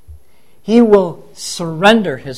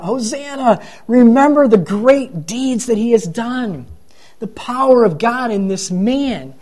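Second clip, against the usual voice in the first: mildly raised, higher acclaim, not shouted; crowd calling out; 4 semitones higher than usual. Acted. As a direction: call out praise like a crowd, without volume. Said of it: "the crowds are calling out".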